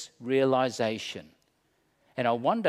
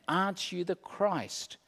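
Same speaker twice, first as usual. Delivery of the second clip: scorning; 4 semitones higher, 5 dB quieter than usual. Acted. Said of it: "Scorning, jeering".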